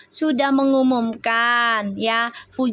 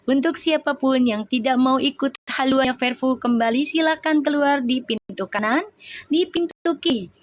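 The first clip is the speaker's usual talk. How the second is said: mock announcer. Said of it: "pramugari gua mah dah".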